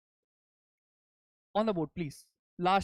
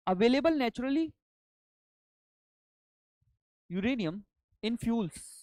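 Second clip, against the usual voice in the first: dictating; 4 semitones higher, 3 dB louder than usual. Shown as a demonstration. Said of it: "let me dictate now".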